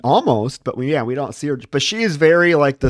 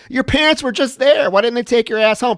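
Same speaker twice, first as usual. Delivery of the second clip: higher, louder scoffing retort; exasperated comeback aimed at the whiny character; mock exasperation; 11 semitones higher, 3 dB louder than usual. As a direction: scoff at her, still pitched up. Mocking the character back.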